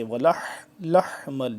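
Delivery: lingering breathed ح in لحمل; mid-throat haa. Shown as a demonstration. Teacher demonstrates the sound, breathed throaty haa. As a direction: hold the ح of ولح from mid-throat. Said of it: "آواز اس کی ہوتی ہے ایسے".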